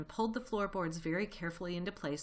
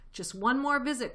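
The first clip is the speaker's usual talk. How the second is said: eager cry; 7 semitones higher, 7 dB louder than usual. Acted. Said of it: "cried Mister Fox".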